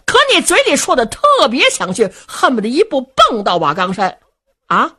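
high, loud, fast heated scolding; fuming brother accusing Luo Cheng of sitting on the fence; angry tirade. A narrator's reading. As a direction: rattle off the accusation in rising fury. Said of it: "双眉倒竖， 二目圆睁".

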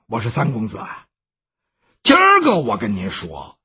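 a worried manservant speaking up; servant Baoxing. Acted.

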